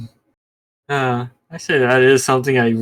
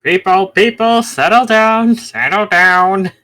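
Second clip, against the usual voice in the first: mock settle-down call; 6 semitones higher, 4 dB louder, slower than usual. Calling the arguers to calm down.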